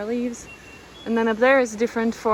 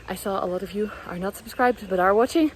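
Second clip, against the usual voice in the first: breathless after the hike; short of breath, panting lightly; 3 dB louder than usual. Real, not acted. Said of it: "I'm a little bit out of breath".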